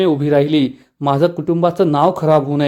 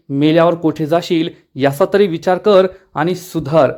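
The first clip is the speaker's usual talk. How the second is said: understated anger. Acted. Adhalrao scolds Balajabai for grabbing the land, restrained anger. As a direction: scold her with a restrained edge. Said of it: "तर आढळराव चिडून म्हणतात".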